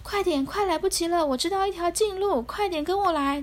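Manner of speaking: high, fast and breathless; out of breath. Acted. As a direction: gasp it out after running. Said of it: "气喘吁吁地跑过来说".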